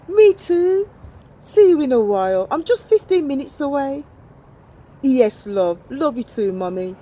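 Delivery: sweet daughter talking to mum; teen girl on phone. Acted. Teenager phoning mum.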